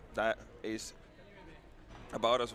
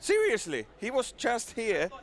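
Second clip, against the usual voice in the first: high, louder, incredulous insistence; real disbelief; 11 semitones higher, 5 dB louder, slower than usual. Real, not acted. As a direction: insist on it in amazement, drawing it out. Still astonished Joe moved so fast.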